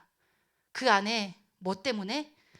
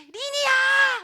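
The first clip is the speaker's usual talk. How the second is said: long, high shouted name; drawn-out pleading shout; desperate calling; 14 semitones higher, 8 dB louder, much slower than usual. Acted. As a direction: call out urgently to a child far away. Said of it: "하나님이 절박하게 막".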